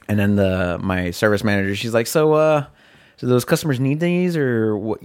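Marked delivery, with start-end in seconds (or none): 2.1-5.0 higher-pitched, pointed question with mild attitude; a bit of attitude. Retold or imitated. Service manager checking on the driver's order, mildly snippy imitation. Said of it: "with a little bit of attitude".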